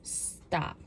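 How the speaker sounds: breathy whispered "stop"; a barely-there unvoiced "stop"; whispered weak stop. Shown as a demonstration. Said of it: "There's a difference between no".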